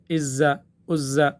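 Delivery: عزا with a z instead of the dh of ذ; wrong z sound. Shown as a demonstration. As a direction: slowly show the lazy zā mistake. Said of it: "عزا پڑھ لیتے ہیں". (غلط تلفظ، ذال کو زا پڑھنا)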